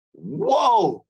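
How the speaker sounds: mock blown-away reaction; amazed whoa. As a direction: gasp out a stunned whoa. Retold hearing her sing.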